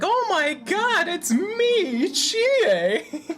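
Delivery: a hammed-up girly squeal; high-pitched Chie. Shown as a demonstration. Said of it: "like, high-pitched".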